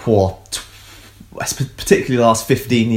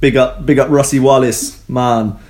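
light mock Jamaican accent; a playful bit of Jamaican patois; 2 semitones higher than usual. Hyping up a scientist in mock Jamaican accent. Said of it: "did that in a Jamaican accent".

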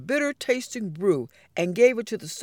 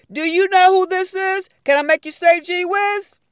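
high, bright quiz-show voice; excited; 11 semitones higher, 8 dB louder than usual. Acted. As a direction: tease the class with the riddle. The speaker's playful quiz voice.

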